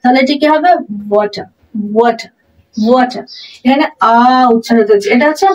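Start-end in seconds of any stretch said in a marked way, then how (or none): 1.1-3.2 ওয়াটার ending in a vowel, no r; British-style ওয়াটার, each repeat set apart; silent final r. Shown as a demonstration. Teacher models British water for learners, ওয়াটার with silent r. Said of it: "British অ্যাকসেন্টে সেটাকে উচ্চারণ করা হয় না".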